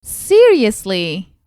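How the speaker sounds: slow, drawn-out disbelieving "Seriously?"; surprised. Acted. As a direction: stretch it out, can't believe the good news. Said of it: "She was surprised and happy".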